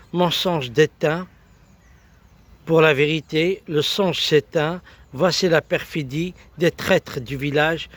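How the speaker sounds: declaimed verse in short, measured phrases; spoken-word poem with lifted line openings; poetry recital. Acted.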